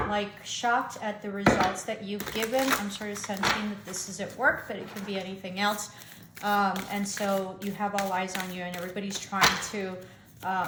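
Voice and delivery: slurring through braces; talking with braces in. Real, not acted. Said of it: "I have my braces, and so I'm sort of slurring".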